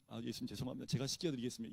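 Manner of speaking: bow your head and apologise gently; humble apology. Shown as a demonstration. Peter humbly offering to wash instead, soft and meek. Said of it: "이래야 돼요?".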